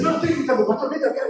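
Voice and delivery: mock calling the pastor over; retold mock yell. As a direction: imitate someone denying that they are shouting. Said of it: "Marta, no me grites".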